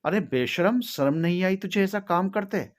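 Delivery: indignant telling-off, voiced by a narrator; angry scolding. A narrator's reading. Mother scolds and beats her daughter.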